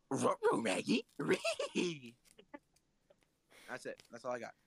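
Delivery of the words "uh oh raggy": high cartoon yelp with questioning rises; Shaggy. Showing off the last impression, high cartoon voice. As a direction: pitch it way up, ending in a squeal. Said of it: "halfway do is Shaggy".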